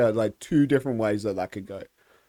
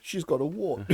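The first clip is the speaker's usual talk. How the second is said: laughing mob accusation; 5 semitones higher, 3 dB quieter than usual. Pretend. Monty Python mob accusation.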